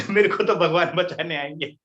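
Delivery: a quote breaking into real laughter; giggling while quoting; laughing. Real, not acted. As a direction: laugh through the priest's stubborn words. Retelling funny story, laughs mid-quote.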